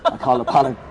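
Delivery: high, laughing through the line; real giggle, high and loud. Real, not acted. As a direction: laugh as you tell it. Laughing while telling story.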